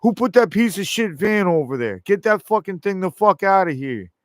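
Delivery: lightly voiced angry boss; imagined Trump demanding the van gone; imitating Trump. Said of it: "he'd go".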